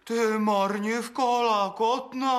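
high, rising squabble; shrill insult match. Acted. Miller bickering with his wife, shrill insults.

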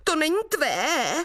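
hugging the flowers for mum, the little sprite defies the devil; little boy crying out. Acted. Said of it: "a vykřikl".

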